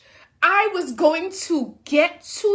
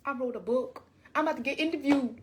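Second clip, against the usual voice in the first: much softer, self-important murmur; inner voice; 4 semitones lower, 9 dB quieter than usual. Retold or imitated. Thinking at the receptionist, much softer. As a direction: say it under your breath. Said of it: "In my head".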